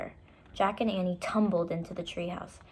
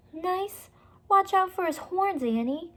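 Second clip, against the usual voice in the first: alarmed; 11 semitones higher, 3 dB louder than usual. Acted. Jack alarmed.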